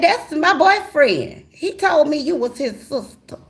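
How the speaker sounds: put-on high, slow young girl. The girlfriend asking the wife, high and slow. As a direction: ask it like a confused teenager. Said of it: "She said".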